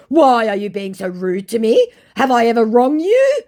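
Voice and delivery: high, loud mock-hurt questions; offended scammer. Fake celebrity asking why she's rude, mock offence.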